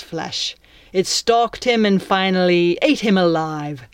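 contemptuous, theatrical pirate villain; pirate captain. Acted. Captain circles captive and recounts Hook's end, contemptuous pirate voice.

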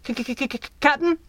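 high, stammering frightened squeak; stuttering squeak. Acted. Flea calling up to his captain, squeaking with fear. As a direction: squeak the word out through chattering fear. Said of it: "Flea's voice squeaked".

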